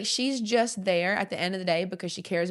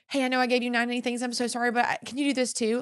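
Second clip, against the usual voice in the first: quick, slightly higher mock apology; apologetic asking; 4 semitones higher, faster than usual. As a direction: rush through a sheepish, imagined request. Voicing an apologetic over-delegator.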